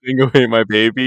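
a loud, hammed-up Australian accent on the famous line; a first, clumsy go at an Australian accent; bad Australian accent. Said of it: "Probably not the best Australian accent".

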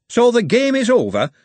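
surprised Hoggett. Acted. Hoggett asks.

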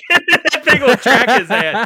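laughing through the words; cracking up mid-sentence. Real, not acted. Laughing while talking.

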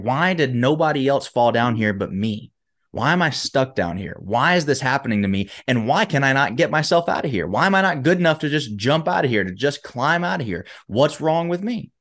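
acted-out frustrated self-questioning, climbing in pitch at the end; mild self-blame. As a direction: plead with yourself, lightly dramatized. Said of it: "He starts to blame himself".

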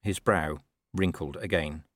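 ordinary delivery

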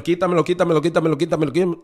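loud, impassioned begging prayer; fervent pleading prayer. Retold or imitated. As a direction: plead urgently with full faith, repeating without a break. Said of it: "Con fe".

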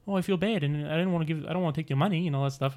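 apologetic New Zealander; lightly put-on New Zealand accent, sweet and reluctant. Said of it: "it's like a New Zealand kind of".

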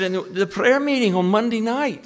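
imitating the Glaswegian pastor's soaring excitement about his church; thrilled Barry. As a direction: climb up into a giddy, breathless report. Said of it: "And he said".

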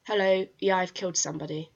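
imitating a blunt, casual confession; matter-of-fact. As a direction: report it like routine business, falling away at the end. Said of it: "being so matter of fact about it".

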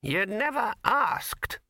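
put-on very high, slow, quavering old man; the stubborn old codger drawls; high slow old man's defiance. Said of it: "said Poons".

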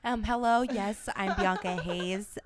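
slow, polished telemarketer voice, a bit hammed-up. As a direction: imitate a bright phone sales greeting. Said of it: "that's her telemarketer voice".

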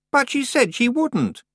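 put-on high, loud, complaining girl's voice; whiny young witch. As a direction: whine like a spoiled out-of-depth girl. Anagramma voice.

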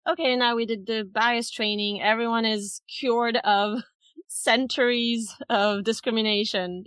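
lightly laughing mock proclamation; mock declaration. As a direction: declare it done, with a little laugh at the absurdity. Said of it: "it doesn't work that way".

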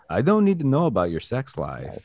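mock action-star quip, oddly forced; forced Van Damme comeback. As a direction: imitate an awkwardly delivered snappy nineties comeback. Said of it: "coming out of his mouth just seems so forced and weird".

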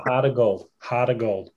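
attempted Chicago accent. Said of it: "with your Chicago accent".

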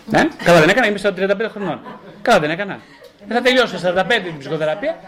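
sarcastic through laughter; mocking laugh. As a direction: laugh at the absurd plan. Mocking the client's plan.

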